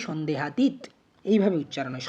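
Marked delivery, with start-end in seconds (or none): 0.1-0.8 সন্দেহাতীত ending on a closed -teet; closed final consonant. Shown as a demonstration. Teacher showing how we say it, closed ending. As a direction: say সন্দেহাতীত with no vowel after the last t. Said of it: "এটা উচ্চারণ করি".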